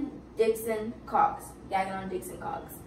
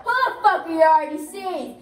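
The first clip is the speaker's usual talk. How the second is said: mock angry demand; 3 semitones higher, 4 dB louder than usual. Acted Whistler yelling at recruit.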